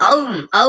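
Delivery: mouthed elephant roar; imitated animal call. Shown as a demonstration. Host models an elephant sound for boss, roaring. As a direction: roar "aum" like a big animal. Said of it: "Suara gajah".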